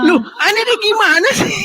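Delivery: high-pitched, baffled complaint; exasperated disbelief. Real, not acted. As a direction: protest high, totally baffled. Baffled outburst at opponent.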